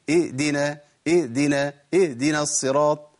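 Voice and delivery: "اهدنا" with the breath stopped, no h; ha turned to hamza. Shown as a demonstration. Teacher shows withheld breath and sound, hamza for ha. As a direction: cut the first syllable of "اهدنا" to a glottal catch. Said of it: "لو منعت عنها النفس والصوت هتبقى همزة".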